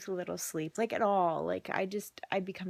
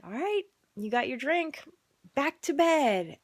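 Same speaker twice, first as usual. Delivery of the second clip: firm parent command; 5 semitones higher, 5 dB louder than usual. Retold or imitated. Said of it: "I'm like".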